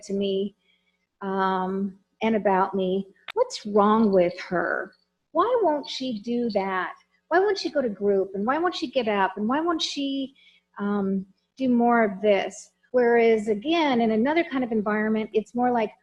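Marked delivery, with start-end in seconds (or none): 3.3-12.7 judgmental complaint. Shown as a demonstration. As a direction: ask it like a fed-up staff member. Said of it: "Hear the difference?".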